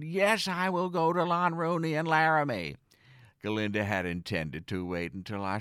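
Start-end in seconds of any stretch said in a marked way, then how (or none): 0.0-2.8 squealed. Retold or imitated. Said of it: "I squealed".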